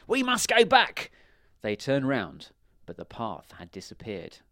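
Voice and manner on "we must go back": high, loud cry; shouted order. A narrator's reading. Baron orders his men back to the castle, high shout. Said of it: "he shouted".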